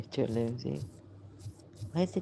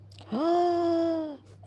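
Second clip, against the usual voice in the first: sharp gasp, much higher and louder; startled gasp; 6 dB louder than usual. Real, not acted. Woman recalling a past life gasps in shock, sharp and high. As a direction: gasp as if a vision hits you.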